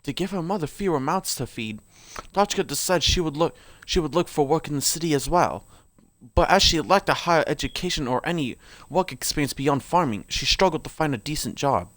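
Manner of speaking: put-on lore read aloud in an amateur British accent.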